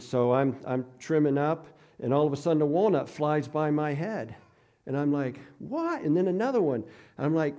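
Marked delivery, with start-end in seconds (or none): 5.6-6.0 sharp high surprised yelp; startled, jump up on the word; surprised what. Retold or imitated. To himself as a walnut flies by, startled.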